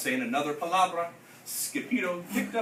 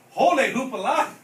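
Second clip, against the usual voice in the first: louder, higher holler; 5 semitones higher, 7 dB louder than usual. A narrator's reading. Scipio hollering at the crazy creatures, loud call. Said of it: "hollered Scipio".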